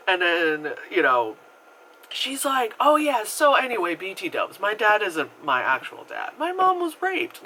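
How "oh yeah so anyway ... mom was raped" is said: high, breezy and offhand; nonchalant. Retold or imitated. Patient casually telling her therapist a shocking secret, nonchalant. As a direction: drop a bombshell like small talk.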